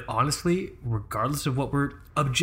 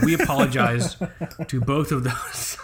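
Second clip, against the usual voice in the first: laughing. Real, not acted. Laughing through apology.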